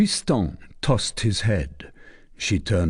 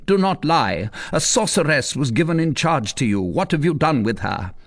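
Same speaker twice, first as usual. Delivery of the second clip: higher, stern warning; threatening commander; 6 semitones higher than usual. Acted. Commander interrogating old woman, stern. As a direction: warn her not to lie.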